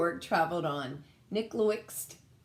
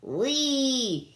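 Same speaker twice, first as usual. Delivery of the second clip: high, loud delighted squeal; squealing whee; 7 semitones higher, 7 dB louder than usual. Acted. Gork rides Saturn's ring, squealing high. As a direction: squeal like riding a ride. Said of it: "he squealed".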